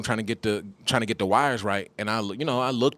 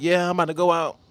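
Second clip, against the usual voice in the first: wife voice; 7 semitones higher, 4 dB louder, faster than usual. Retold or imitated. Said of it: "She's like".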